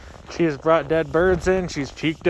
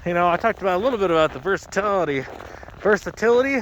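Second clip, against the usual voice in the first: talking through a face mask; words muffled by a mask; 3 semitones higher, faster than usual. Real, not acted. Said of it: "hard to talk with this mask on".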